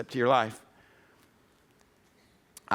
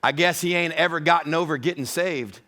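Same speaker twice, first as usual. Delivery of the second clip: lightly imitated Texas accent; a hint of a Texas wife's drawl. Wife shrugging off the couple's question, light Texas drawl. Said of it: "in that Texas drawl and accent".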